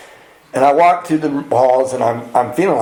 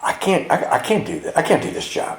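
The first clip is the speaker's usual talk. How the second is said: frightened whisper; 3 semitones higher, 5 dB quieter than usual. Retold or imitated. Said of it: "I sat up like".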